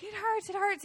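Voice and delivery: retold freaking out. Telling husband about the wasp sting, mock panicked. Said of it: "then I start freaking out".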